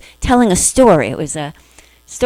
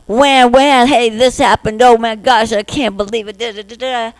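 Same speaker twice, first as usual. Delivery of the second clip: put-on whiny little child; 3 semitones higher than usual. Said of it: "the little you that's going".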